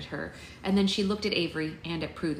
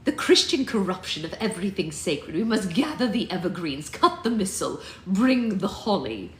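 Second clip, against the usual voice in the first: louder, grand scornful declaration; haughty disdain; 5 dB louder than usual. Acted. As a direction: sweep it out like a commanding matriarch. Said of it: "I like what we did here".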